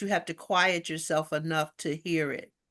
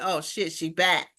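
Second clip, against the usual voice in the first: laughing mock dismay; 3 semitones lower than usual. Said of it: "Star's spirit said".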